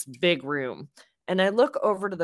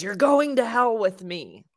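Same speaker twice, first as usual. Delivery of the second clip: mild mock yell, higher pitched; retold scream; 5 semitones higher, 4 dB louder than usual. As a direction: imitate a threatening scream without full force. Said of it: "he screams in my face".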